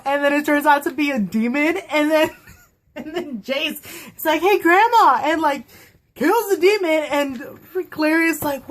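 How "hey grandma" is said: playful mock call, high and loud; cheeky greeting. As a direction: imitate a sassy hero hailing an old lady. Acts out Jace's cheeky greeting.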